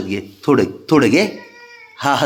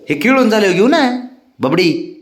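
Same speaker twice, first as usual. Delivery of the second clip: high coaxing, slowing at the end; 9 semitones higher than usual. Real, not acted. Owner bargaining with pet, high sing-song coo.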